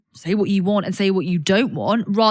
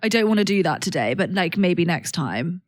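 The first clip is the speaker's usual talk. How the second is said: gentle letdown; 4 semitones lower than usual. Shown as a demonstration. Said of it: "Really good".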